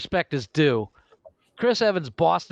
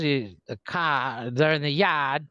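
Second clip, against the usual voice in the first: put-on Boston accent. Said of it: "What's that scene from Jaws?".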